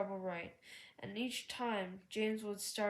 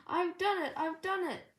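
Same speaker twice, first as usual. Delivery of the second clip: high, loud triumphant cheer; 8 semitones higher, 5 dB louder than usual. A narrator's reading. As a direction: crow it out in victory.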